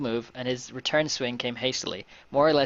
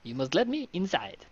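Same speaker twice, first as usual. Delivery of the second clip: indignant valet; 3 semitones higher than usual. Acted. Valet demands to be let inside, indignant and put-on. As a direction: plead your case in a raised character voice. Valet confronts the gang in dialogue.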